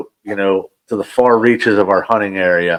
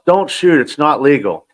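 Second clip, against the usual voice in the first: imitated yell; 4 semitones higher than usual. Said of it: "he yells".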